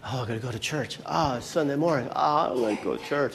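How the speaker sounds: quiet Sunday-morning grumble; lightly acted sleepy reluctance; reluctant churchgoer. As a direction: groan it out as if just woken. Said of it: "how many of us felt like this morning".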